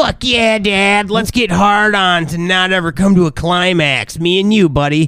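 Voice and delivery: mock eager son. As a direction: play a son cheering his dad on.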